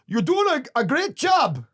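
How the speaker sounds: high, loud mock drunk compliment; drunk heckler praise. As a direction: ham up a sloppy drunk compliment. Heckler quoted giving praise.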